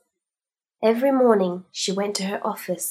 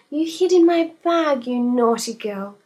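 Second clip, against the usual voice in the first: high, louder fond scolding; doting owner; 4 semitones higher, 5 dB louder than usual. Acted. Mrs Humphreys scolding her snake, fond scold. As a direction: coo at the naughty pet.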